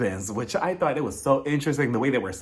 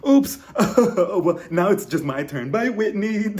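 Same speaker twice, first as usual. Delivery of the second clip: mock sweet goodbye; 6 semitones higher, 4 dB louder, slower than usual. Imagined pushing Whitney off jet ski.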